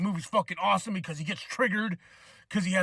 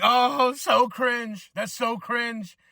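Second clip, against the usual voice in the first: higher, mildly raised imitation of yelling; mock yell; 4 semitones higher, much slower than usual. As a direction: imitate a screaming online performer, half-hearted. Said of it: "then yelling".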